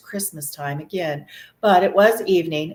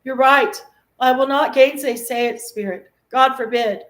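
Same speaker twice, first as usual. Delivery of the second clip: louder, higher eager outburst; crying out eagerly; 6 semitones higher, 6 dB louder than usual. A narrator's reading. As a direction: blurt it out warmly agreeing. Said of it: "cried Scrooge".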